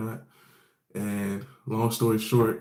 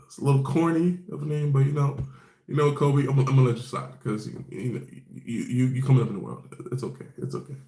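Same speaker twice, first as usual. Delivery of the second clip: higher, amused forgiving tease; playful teasing; 4 semitones higher than usual. Real, not acted. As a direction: let him off with a grin. Teasing Kobe about his name.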